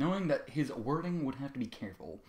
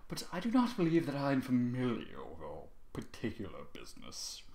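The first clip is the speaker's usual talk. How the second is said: prim; 6 dB quieter than usual. Acted. Prim foal continues.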